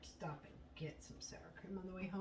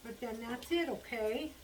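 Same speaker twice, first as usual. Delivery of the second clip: pet talk; 5 semitones higher, 4 dB louder than usual. Real, not acted. Promising the pet one more treat.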